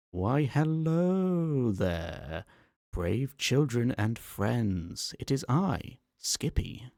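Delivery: high, very slow English lady voice; a sweet, sing-song English hostess; high-pitched posh English greeting, drawn out; female English accent. Acted. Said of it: "speak with a female English accent".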